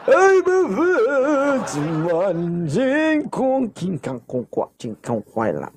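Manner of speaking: joking gibberish. Pretend. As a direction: start squeaky high, tumble down through the syllables. Joking gibberish, then says charot. (pabirong boses na walang saysay ang sinasabi)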